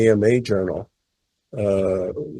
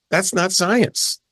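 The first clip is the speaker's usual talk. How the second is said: slow indignant; 7 semitones higher, much slower than usual. Real, not acted. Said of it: "indignant rebuttal".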